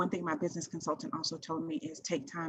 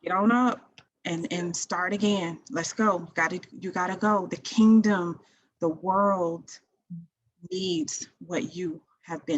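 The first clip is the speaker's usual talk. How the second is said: loud, raised pitch, driving and urgent; rousing pep talk; 9 dB louder than usual. Real, not acted. Host urging listeners to get up, loud rousing pep talk. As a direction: fire up the listeners like a preacher.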